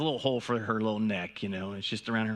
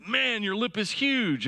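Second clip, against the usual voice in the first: high, slow, blunt mom quote; mock a blunt no-nonsense mother; 10 semitones higher, slower than usual. Mom's blunt remark quoted.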